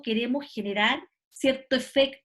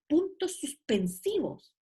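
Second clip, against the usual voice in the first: PUNTOS SUSPENSIVOS slow and higher, stressed; emphatic spelling-out; 4 semitones higher, slower than usual. Shown as a demonstration. Teacher hinting that the name says it, PUNTOS SUSPENSIVOS slow and emphatic. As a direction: stretch out PUNTOS SUSPENSIVOS to point at its meaning.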